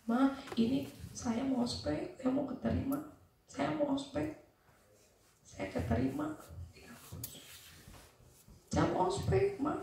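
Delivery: soft, restrained appeal; subdued pleading. Retold or imitated. Daughter calming herself to ask mother about orientation, soft plea. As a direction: ask mom quietly, holding back.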